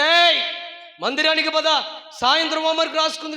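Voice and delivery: put-on loud, firm call to the boy. Parent calls the son to come to church, loud and firm. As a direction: summon the son loudly.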